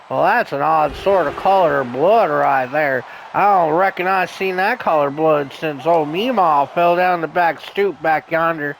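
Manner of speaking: lightly drawled Appalachian hillbilly voice; stoner Shelton voice. Acted. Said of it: "right there was my Shelton Cooper impression".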